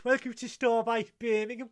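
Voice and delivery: high, loud, grand greeting to visitors; hammed-up tannoy welcome; mock welcome announcement. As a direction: announce it like a proud station host.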